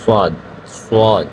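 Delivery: সাদ stretched very slowly, twice; drawn-out sad. Shown as a demonstration. Teacher modelling সাদ slowly for beginners. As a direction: draw out সাদ so learners hear it. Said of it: "ঠিক আছে".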